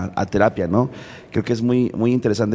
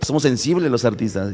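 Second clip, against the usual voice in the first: joking; 4 semitones higher, faster than usual. Retold or imitated. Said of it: "él de broma decía".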